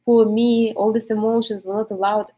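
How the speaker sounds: mock self-pity. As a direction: lightly ham up feeling sorry for yourself. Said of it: "start feeling sorry for yourself".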